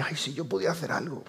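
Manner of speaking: very soft, tender imitation of a relative; affectionate helpless wish. Relative wishing they could help, affectionate and helpless. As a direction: sigh it softly, with loving regret. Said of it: "con todo el cariño del mundo dice".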